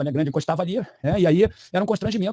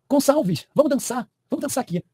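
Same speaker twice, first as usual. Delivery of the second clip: lightly voiced woman, pitched higher; mock eager invitation; 5 semitones higher, slower than usual. Woman asks Gonçalves to dance, lightly imitated higher voice. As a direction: call him over to dance, a bit high.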